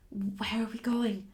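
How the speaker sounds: frightened whisper. Acted. Captive whispering to her guide in fear. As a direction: breathe the question, barely voiced. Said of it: "I whispered".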